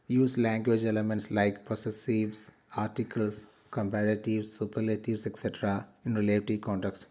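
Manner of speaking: reads each English phrase out slowly and evenly; slow textbook reading. Acted. Teacher reads the outcome to students, slowly and clearly. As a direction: read it out for the class word by word.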